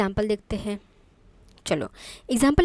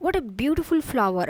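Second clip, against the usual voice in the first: admiring exclamation; much slower than usual. Shown as a demonstration. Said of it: "जिस तरह से मैं react करूँगी".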